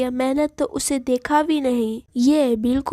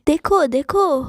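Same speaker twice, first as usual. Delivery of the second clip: excited cry; 4 dB louder than usual. Acted. Sela sees the ears growing.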